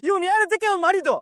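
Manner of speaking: grieving son yelling at the accused friend; furious shout. Acted. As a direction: shout the blame at him.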